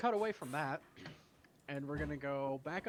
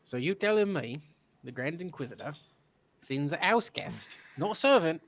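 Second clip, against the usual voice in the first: incredulous; 4 dB louder than usual. Acted. GM questions house guest errand.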